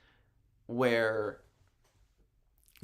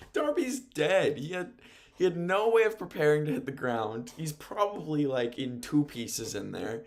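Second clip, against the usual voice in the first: higher-pitched alarmed reaction; retold disbelief; 4 semitones higher than usual. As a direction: exclaim it in shocked disbelief. Recounting reaction to a brutal dump.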